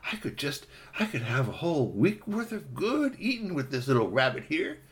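lightly voiced savoring fox; musing hungry fox. Fox imagining a week of meals, mildly greedy. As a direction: muse aloud with drifting relish.

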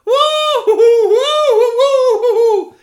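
high, loud owl hooting; alarmed owl hoots. Acted. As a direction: hoot at the intruder like an upset owl. Owls upset at a human.

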